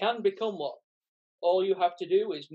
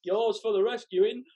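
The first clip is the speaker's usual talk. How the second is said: game show host. Acted. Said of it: "acts like a game show host".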